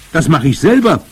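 high, loud, determined claim; exclaiming. A narrator's reading. Grandmother insists she'll climb herself, exclaiming. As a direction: insist on it with gusto. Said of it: "rief sie wieder".

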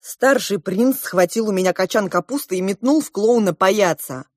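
plain reading voice

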